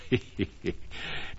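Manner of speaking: quiet, breathy little giggle; light storyteller's titter; soft chuckle. A narrator's reading. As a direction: chuckle softly at the funny names. Narrator amused by funny names.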